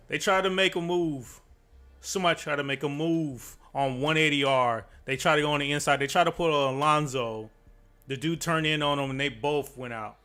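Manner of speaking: breaking down the crash with heat; motorsport commentator. Real, not acted.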